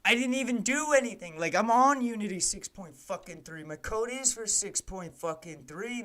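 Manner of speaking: venting real annoyance at the software; frustrated outburst. Real, not acted. Streamer ranting at Unity, loud frustrated outburst.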